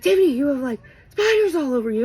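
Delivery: high-pitched imitation of a panicked friend; retold freak-out. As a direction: act out her alarmed warning, voice jumping up. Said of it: "she's freaking out".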